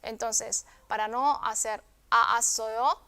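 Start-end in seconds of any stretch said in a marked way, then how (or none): 2.1-3.0 "a, a, soy yo" with the a doubled; two separate a sounds before soyo; unmerged vowels. Shown as a demonstration. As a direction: keep both vowels apart in "a, a, soy yo". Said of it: "sino directamente se junta en uno".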